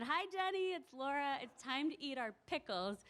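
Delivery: high, sing-song hello to a patient; bright cheerful greeting. Retold or imitated. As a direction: announce yourself sweetly to an old friend. Greeting elderly woman brightly.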